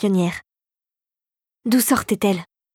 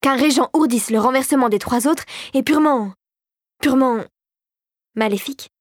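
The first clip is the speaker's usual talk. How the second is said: higher-pitched outrage, faltering for the word; indignant; 4 semitones higher than usual. A narrator's reading. Frisson on a regent's plot against the others, indignant. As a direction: sputter in outrage until the word comes.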